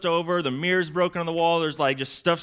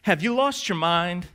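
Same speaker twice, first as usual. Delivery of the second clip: slow, raised-pitch rhetorical scolding; exasperated parent; 4 semitones higher, slower than usual. Acted. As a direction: scold like a parent at wit's end. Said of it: "a parent or a boss asking these rhetorical questions".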